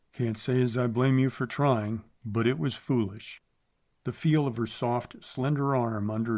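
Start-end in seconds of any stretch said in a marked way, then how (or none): 0.1-3.4 flat. Acted. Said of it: "Clay said flatly".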